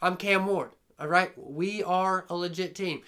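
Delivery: lightly voiced cool bro; low and laid-back, like a chill dude talking; a hint of a cocky bro; voicing the team. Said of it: "University of Miami says".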